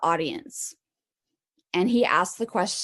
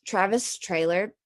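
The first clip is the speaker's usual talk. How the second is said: talking with a mouthful of steak; mouth full. Real, not acted. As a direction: say the name round a bite of food. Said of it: "I have a steak in my mouth".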